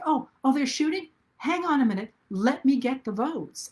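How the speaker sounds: a hint of a cool rescuer shrugging off gunfire; unbothered heroine. The vote-saving woman reacting to the shooting, mock casual. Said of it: "this one being like".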